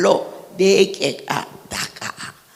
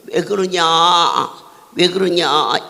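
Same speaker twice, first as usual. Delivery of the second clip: Jeolla dialect; 4 semitones lower than usual. Shown as a demonstration. Preacher demoing dialects to congregation, light Jeolla accent. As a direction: say it the way Jeolla folks do. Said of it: "우리 전라도에서는".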